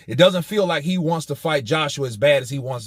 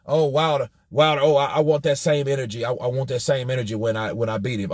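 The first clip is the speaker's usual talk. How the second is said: mocking whiny imitation; 2 semitones lower, faster than usual. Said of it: "don't sit here and try to".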